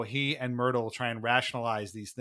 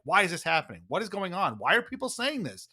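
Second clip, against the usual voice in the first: mock exasperated; 4 semitones higher than usual. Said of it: "Jonas is more kinda angry".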